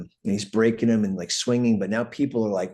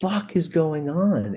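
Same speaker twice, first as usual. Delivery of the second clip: alarmed yell; 9 semitones higher than usual. Retold or imitated. Finding a fistfight on the tour bus, alarmed yell. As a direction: yell it bursting in on a brawl. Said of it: "So I'm like".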